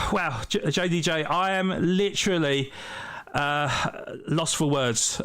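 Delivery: slightly breathless, between gasps; out of breath. Real, not acted. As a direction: talk while catching your breath. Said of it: "I'm literally out of breath here".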